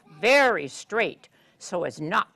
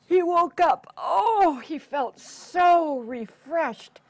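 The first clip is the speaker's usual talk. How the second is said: higher, slow, stretched-out joy; refreshed; 6 semitones higher, 6 dB louder, slower than usual. Acted. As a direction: wake up bright and stretching.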